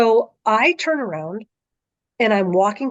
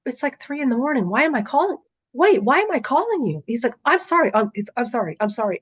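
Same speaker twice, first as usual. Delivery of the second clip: higher, fast, flustered apology; a lightly voiced bewildered father; confused dad; 5 semitones higher, faster than usual. Dad calling at three in the morning, higher and flustered.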